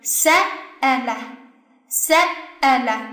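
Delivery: se set apart and stressed, ele lighter after it. Shown as a demonstration. Teacher models the word by the rule, stress on se. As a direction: lean on se, then drop onto ele. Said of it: "一定是在倒数第三个".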